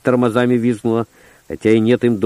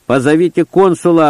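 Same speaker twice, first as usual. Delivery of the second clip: loud, higher yelled demand; yelling; 5 semitones higher, 4 dB louder than usual. Acted. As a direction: yell it out for the consul. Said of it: "ору я".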